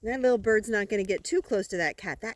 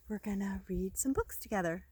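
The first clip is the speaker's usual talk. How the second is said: whisper; 8 dB quieter, faster than usual. Real, not acted. Secret to Tommy.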